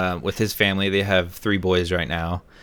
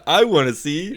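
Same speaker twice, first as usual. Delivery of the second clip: lightly imitated excited child, higher pitch; eager kid; 8 semitones higher, 3 dB louder than usual. Kids begging to see Santa's sleigh, lightly imitated eagerness. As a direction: pipe up high like an eager child. Voicing the eager kids' plea.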